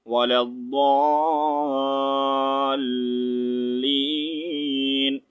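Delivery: الضَّالِّينَ with the لام pressed hard and joined; firm doubled lam. Shown as a demonstration. Teacher showing the hard join in prayer recitation, slow chant. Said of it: "رک کر پھر آگے سختی سے join کرتے ہیں".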